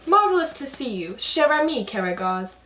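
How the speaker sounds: loud, lofty puppet voice with French flair; worldly Hasavat. Acted. Hasavat greeting Karagos with fancy French, grand and loud. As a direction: greet him grandly, showing off. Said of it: "he keeps throwing in little French phrases".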